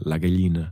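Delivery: La Gallina with a palatal L, like ga-LYI-na; soft GL sound. Shown as a demonstration. Teacher showing the learner the G L, soft GL sound. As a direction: model Gallina with an LY glide. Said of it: "es ist einfach G L".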